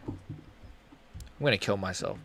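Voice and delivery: mock despair. Real, not acted. Mock despair over the fight.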